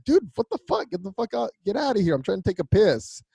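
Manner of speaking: high, snapping mock rage; imitating angry George. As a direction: play the annoyed celebrity telling him to get out, high and sharp. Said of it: "got all fucking like".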